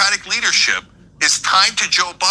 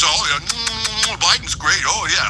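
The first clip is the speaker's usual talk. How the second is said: slow, syrupy mock flattery; fawning ass kisser; slower than usual. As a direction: croon it like a toady, lightly mocking. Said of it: "an ass kisser, who goes".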